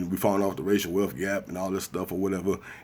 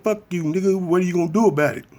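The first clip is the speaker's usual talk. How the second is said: high, fast taunt; taunting debtor; 11 semitones higher, 4 dB louder, faster than usual. Retold or imitated. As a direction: dare him to do something. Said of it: "I said".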